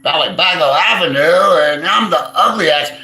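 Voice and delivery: lightly voiced dull vlogger; mocking the vlogger. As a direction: drag it out like a clueless vlogger. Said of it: "I'm waiting for him to say".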